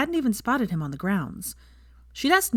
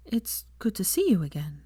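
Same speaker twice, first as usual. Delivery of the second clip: gentle whisper; soft. A narrator's reading. Hermione gently greeting Hagrid in a soft whisper. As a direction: breathe it softly to an old friend. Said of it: "she said softly".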